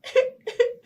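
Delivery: high laughing fake cry; half-laugh, half-cry sound; mock sob. Storyteller makes the mystery sound, a laughing mock cry. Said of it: "the sound was a".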